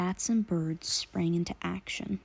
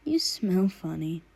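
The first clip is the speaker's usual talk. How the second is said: giggled. Acted. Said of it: "he giggled".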